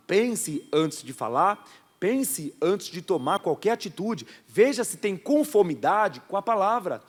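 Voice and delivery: slow deliberate exhortation; slow emphatic preaching. Acted. Pastor repeating the lesson to the church, slow preaching. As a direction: lay it down word by word.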